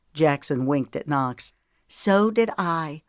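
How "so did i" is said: higher, drawn-out agreement; chiming in. A narrator's reading. Relative adding agreement after the proposal, chiming in. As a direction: chime in slowly and lightly. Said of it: "Lemon chimed in".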